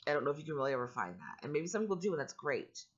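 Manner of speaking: growly, rough allergy voice; a growl from allergies. Real, not acted. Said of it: "I'm sorry if my voice sounds growly".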